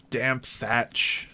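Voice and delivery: usual speaking voice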